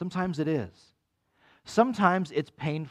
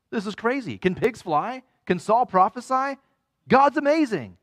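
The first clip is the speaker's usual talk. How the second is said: rising higher and louder in astonished disbelief; amazed exclaiming; 7 semitones higher, 5 dB louder than usual. Acted. Preacher voicing onlookers stunned by Saul, excitedly. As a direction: voice the crowd's mounting amazement, climbing to a loud peak.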